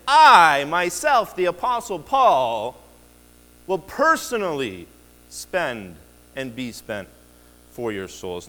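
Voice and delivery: jab your chest and declare it; emphatic I. Shown as a demonstration. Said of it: "pointing at his chest and saying".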